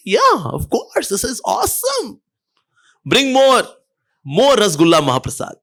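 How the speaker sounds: high, slow, gushing delight over sweets; excited lady. Retold or imitated. Lady greedily relishing the sweets.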